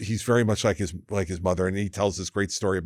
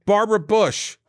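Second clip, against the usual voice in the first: high, louder imitated call; retold holler, pitched way up; emphatic repeat; 12 semitones higher, 5 dB louder than usual. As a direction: repeat the name for someone who can't believe it. Coworker repeats name to startled wife.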